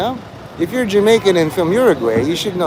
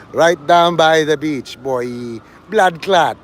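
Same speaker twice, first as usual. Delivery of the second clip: mock Jamaican; slower than usual.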